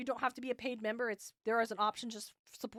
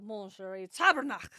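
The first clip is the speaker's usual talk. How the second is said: attempted French accent, punched on the last word; 4 semitones lower than usual. Host tries a listener's favorite non-curse, outrageous French accent. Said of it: "the most outrageous French accent".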